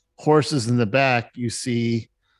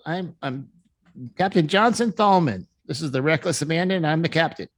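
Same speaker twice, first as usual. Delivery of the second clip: higher, quick self-introduction as ship captain; proud captain; 5 semitones higher, faster than usual. Acted. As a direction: announce yourself and your ship proudly. Captain introduces himself to guards.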